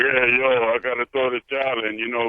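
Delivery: a hint of Rocky's mumble, fast; Rocky impression. Caller imitating Rocky at the towel, lightly voiced and quick. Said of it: "but Rocky's like".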